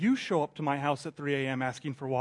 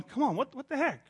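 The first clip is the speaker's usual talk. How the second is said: ticked-off complaint; 9 semitones higher than usual. Retold or imitated. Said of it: "I'm kinda ticked off".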